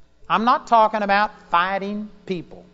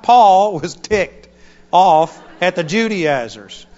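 laughing; 8 dB louder, slower than usual. Real, not acted. Laughing while shouting about Paul.

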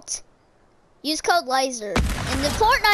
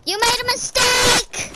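shouted taunt; 5 semitones higher than usual. Real, not acted. Taunts opponent mid-game.

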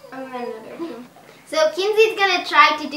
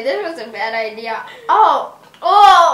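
whiny pained; 8 dB louder than usual. Real, not acted. Sour candy pain.

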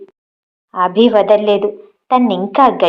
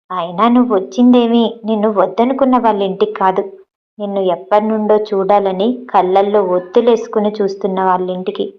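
lovingly; 2 semitones lower than usual. Acted. Abhi lovingly reassuring Nandu after her fever, tender. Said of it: "ప్రేమగా".

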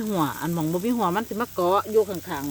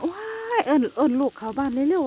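higher urgent call, imitating grandpa; grandpa calling urgently; 8 semitones higher than usual. Vlogger imitates grandpa calling the kids inside, urgent. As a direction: mimic grandpa hurrying the kids indoors. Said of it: "พ่อใหญ่ว่า".

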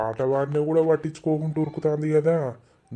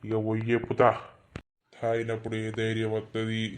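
put-on drunk; 5 semitones lower, 3 dB quieter than usual. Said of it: "ఇవాళ మంచిగా తాగిన నేను".

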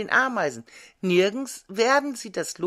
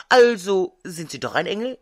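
loud triumphant exclamation; 2 semitones higher, 7 dB louder than usual. A narrator's reading. Beetle to the elf he takes for an angel, triumphant. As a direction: cry it out, pleased to have caught him out. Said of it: "rief der Maikäfer triumphierend".

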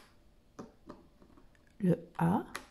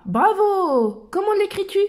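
put-on higher, brighter bravo to the child; cheery praise; 8 semitones higher than usual. Praising the child who guessed, in a high cheery voice. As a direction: cheer the little one on.

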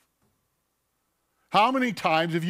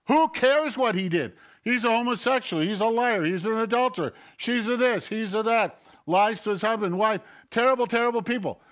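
higher, louder sneering list of other people's sins; self-righteous scorn; 7 semitones higher, 5 dB louder than usual. Acted. Preacher mocking a self-righteous churchgoer, sneering and raised. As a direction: look down your nose and spit out each label.

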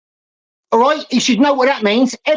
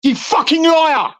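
angry; 3 semitones higher than usual. Real, not acted. Furious caller calls out a liar.

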